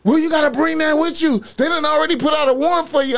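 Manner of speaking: high, loud, rapid mock urgency; panicking caller. Defender warns client of a warrant, panicking. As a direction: rush it out as a frantic caller. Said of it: "Bitch just called me panicking".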